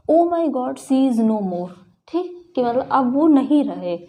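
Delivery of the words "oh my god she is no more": shocked gasp. Shown as a demonstration. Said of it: "जैसे कि".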